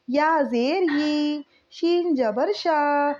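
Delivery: each letter, vowel mark and sound read out slowly; patient, drawn-out spelling chant; slow syllable drill. Shown as a demonstration. Teacher reads syllable drill.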